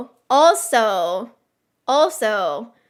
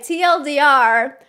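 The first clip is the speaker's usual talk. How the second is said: usual speaking voice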